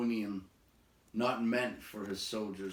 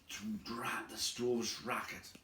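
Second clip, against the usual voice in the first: muttered to himself; 7 dB quieter than usual. Acted. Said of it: "he said to himself".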